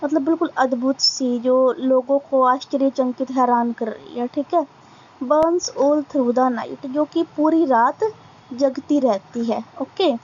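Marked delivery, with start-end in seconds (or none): 5.2-6.9 very slow, deliberate recitation, word by word; slow poem reading. Acted. Teacher reading a poem line to students, slow recitation. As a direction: read each line out slowly for the class to follow.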